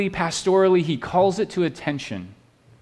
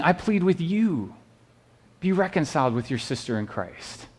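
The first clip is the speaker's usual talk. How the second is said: gentle pleading apostle; 3 semitones higher, 4 dB quieter than usual. Retold or imitated. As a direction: plead gently with one sister, softer than the preaching. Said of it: "He's pleading with them".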